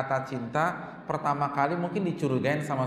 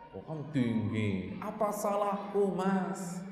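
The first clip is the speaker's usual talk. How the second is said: mocking nagging wife; 3 semitones higher, 4 dB quieter, slower than usual. Wife arguing with husband, mocked.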